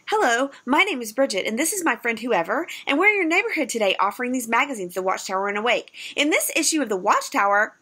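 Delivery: bright, quick doorstep pitch; lightly voiced eager door-to-door pitch; nervous hopeful door seller. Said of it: "I remember lots of".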